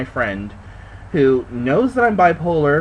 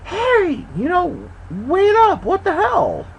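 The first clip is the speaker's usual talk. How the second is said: mock shout of disbelief; yelling after the car; slower than usual. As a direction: call out to him as he drives off. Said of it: "And I'm like".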